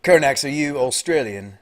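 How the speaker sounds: clumsy attempt at an Australian-British accent; half-British, half-Australian put-on accent; weird Britishy-Australian hybrid accent. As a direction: fake an Australian accent, not very well. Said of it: "attempt at some sort of weird Britishy Australian hybrid accent".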